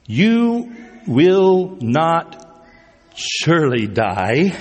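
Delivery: slow, sing-song serpent coaxing; tempting serpent. Acted. Preacher reading the serpent tempting Eve, slow and sing-song. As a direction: stretch each word out like a sly snake.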